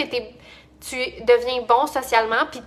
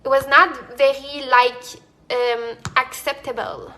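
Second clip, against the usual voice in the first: halting English; slower than usual. Shown as a demonstration. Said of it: "I was talking like this".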